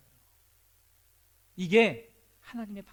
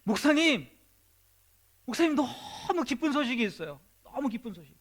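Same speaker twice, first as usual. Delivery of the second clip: joyful news; 5 semitones higher than usual. Acted. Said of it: "막 웃으면서 막 목사님을 찾아오는".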